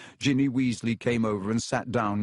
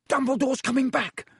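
joyful yell; 13 semitones higher than usual. A narrator's reading. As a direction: cheer the news. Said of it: "several people yelled joyfully".

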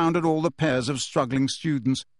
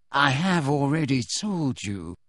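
smoothly; slower than usual. A narrator's reading. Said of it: "said Snape smoothly".

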